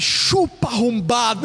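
high, loud gloating jab; triumphant taunt. Retold or imitated. Racer passing his rival taunts him with gloating glee. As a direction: rub it in the loser's face.

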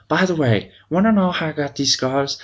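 hint of a taunting villain quote; retold taunt, lifted in pitch; Joker. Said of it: "Joker's got Batman pinned down".

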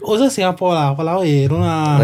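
lightly voiced dismissive friend in Singlish; a hint of a Singlish brush-off. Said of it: "Then they hear, they like".

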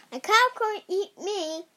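lightly voiced cheeky cookie; a hint of a boastful gingerbread man. A narrator's reading. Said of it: "he said".

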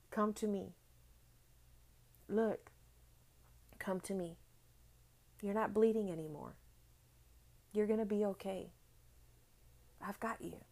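soft, gentle voicing of God's comfort; a hint of a father soothing a hurt child; tender reassurance. God's gentle words in a testimony.

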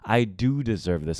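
low, self-assured "I do deserve this"; a hint of swagger; arrogant confidence. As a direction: own it, calm and smug. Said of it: "arrogant, confident ego".

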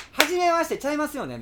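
high, loud laughing voice; gasping out words mid-laugh; after laughing hard. Retold or imitated. Voicing laughing caller.

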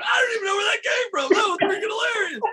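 high, fast, laughing shout. Retold or imitated. Young actor cracking up at his own comeback, laughing shout. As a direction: blurt it out through laughter. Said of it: "And I'm cracking up laughing".

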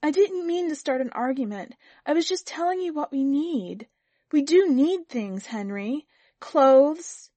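high, loud, insistent wife; insist, building to a loud last word; rising anger. A narrator's reading. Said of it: "Anger was beginning to rise".

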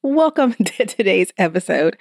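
restarting the intro, still giggling; laughing through welcome. Real, not acted. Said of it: "I'm making myself laugh".

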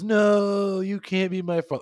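high, loud, drawn-out wail of denial; hammed-up movie hero crying out in disbelief; dramatic mock cry. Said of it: "That whole dramatic thing".

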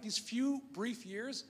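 these few brief years, each word slow and spaced; slow emphasis. Acted. Preacher stressing how short life is, slowly. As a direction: stretch it out, let it land.

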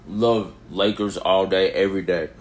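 talking through a yawn; words stretched by a yawn. Real, not acted. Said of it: "Sorry, the little yawn".

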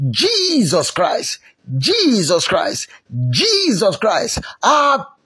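slow calls starting high and falling; drawn-out shouts. Real, not acted. Preacher leading the congregation's prayer, drawn-out calling cries. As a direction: call the name out long, then plead. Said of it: "shout it very well".

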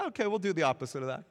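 quick, lightly voiced contrary kid; mock compliant kid. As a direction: toss it off fast, imitating a strong-willed child. Voices contrary strong-willed kids.

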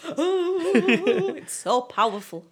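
hammed-up tearful wail, starting high; exaggerated weepy gushing through a laugh; mock crying. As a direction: act overcome by how moving it is. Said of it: "makes me cry and cry".

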